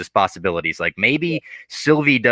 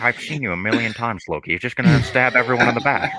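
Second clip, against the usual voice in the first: lightly attempted celebrity impression; Owen Wilson. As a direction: do a hint of a bad impression, half-convincing. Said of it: "It's not a good Owen Wilson".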